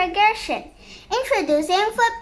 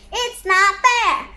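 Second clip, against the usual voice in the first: put-on slow, drawn-out childish complaint; mock whine, stretching the words; whining; slower than usual. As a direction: whine it like an aggrieved kid. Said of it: "and stop that whining".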